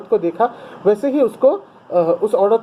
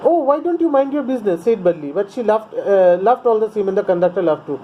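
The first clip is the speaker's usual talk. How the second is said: curt; much slower than usual. A narrator's reading. Teacher reads the English text.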